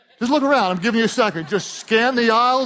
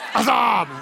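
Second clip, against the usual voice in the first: shouted buddy greeting, a touch higher; bro greeting; 4 semitones higher than usual. Retold or imitated. Pastor punning as guys greet each other, playful bro shout. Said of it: "guys use sometimes when they see other guys".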